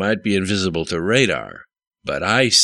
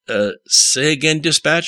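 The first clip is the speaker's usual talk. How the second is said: raised, higher voice calling to dispatch; shouting into a mic; 9 semitones higher, 4 dB louder than usual. A narrator's reading. Jimmy on the radio to dispatch, a loud, higher shout. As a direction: yell it up into the headset mic over the noise. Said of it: "shouted Jimmy into his mic".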